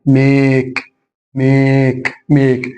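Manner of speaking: ميك with a long ay, "maake"; long vowel. Shown as a demonstration. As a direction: hold the vowel of ميك evenly. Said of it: "فياخد الصوت الطويل اللونج". (ميك بالصوت الطويل)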